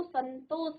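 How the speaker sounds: संतोष with a clear n before तो; teacher sounding out संतोष; pronunciation demonstration. Shown as a demonstration. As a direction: linger on the n of संतोष. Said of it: "उच्चारण में आपको".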